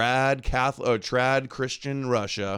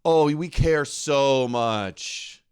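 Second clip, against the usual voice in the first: sarcastic mock concern; 3 dB louder, much slower than usual. Sarcastic jab at the guests.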